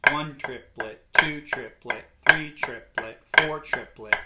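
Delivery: rhythmic triplet count; counting in time. Shown as a demonstration. Drum teacher demonstrating flam accents, counting in time. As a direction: count triplets evenly on a steady beat.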